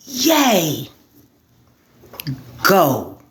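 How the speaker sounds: squeaky high mock Yay, then a flat go; mock cheer. People cheer on cursing politicians, mock cheering. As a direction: cheer in sarcastic falsetto. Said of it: "And we are like".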